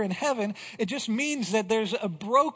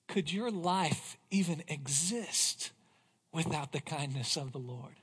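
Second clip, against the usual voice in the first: quiet searching question; 4 semitones lower, 6 dB quieter than usual. Real, not acted. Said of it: "I want to ask you this question".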